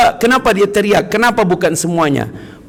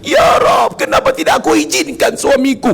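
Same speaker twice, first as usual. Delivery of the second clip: regretful cry; 10 semitones higher than usual. Retold or imitated. Wife crying out to God over her husband. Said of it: "Ibu-ibu mungkin yang teriak".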